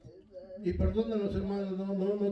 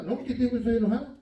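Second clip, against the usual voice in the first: angry retort; 4 dB louder, much faster than usual. Retold or imitated. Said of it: "bravo me contestaba".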